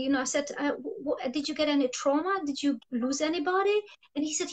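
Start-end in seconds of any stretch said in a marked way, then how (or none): 0.7-3.8 very gently. Retold or imitated. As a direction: ask gently, as if not to hurt him. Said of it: "just very gently".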